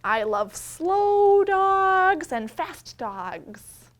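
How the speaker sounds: slow, loud storybook reading; reading to children. A narrator's reading. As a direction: read each page out slowly to the little ones. Reading picture book aloud.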